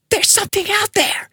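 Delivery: high, strained hiss; tense, high-pitched warning; hissed alarm. A narrator's reading. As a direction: squeeze it out high and urgent. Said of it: "he hissed".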